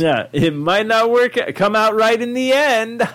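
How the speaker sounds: laughing, high and slow; excited planning. Real, not acted. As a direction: giggle through the plan. Laughing while planning the interview.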